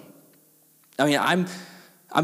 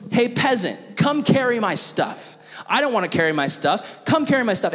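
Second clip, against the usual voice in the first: lightly voiced bossy soldier, a bit higher; Roman soldier; 4 semitones higher than usual. Soldier ordering a Jewish citizen to haul gear, mildly bossy. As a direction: order a peasant around, stretching the commands. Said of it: "any Roman soldier could see a Jewish citizen".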